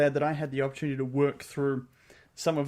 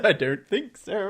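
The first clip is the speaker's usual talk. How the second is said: slow, higher smug denial; smug refusal; 5 semitones higher, 5 dB louder than usual. Acted. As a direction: refuse with playful smugness. Voicing the knight refusing.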